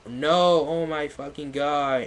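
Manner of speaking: half-hearted frightened yell; mock scared shout. Narrator shouting in fright, mild mock fear. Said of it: "I shouted in a scared voice".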